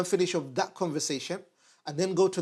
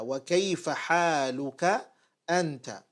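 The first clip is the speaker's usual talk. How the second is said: slow, drawn-out "Wa kayfa haluka", then "anta" set apart; emphatic question; slower than usual. Shown as a demonstration. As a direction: stretch "haluka", pause, then stress "anta". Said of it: "But then he asks with emphasis".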